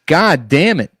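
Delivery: laughing through sudden pain; pained laugh and curse; hit my funny bone. Real, not acted. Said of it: "I just hit my funny bone".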